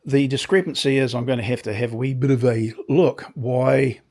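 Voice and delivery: croaky, dusty throat. Real, not acted. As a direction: talk through a croaky throat. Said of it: "excuse the croaky voice".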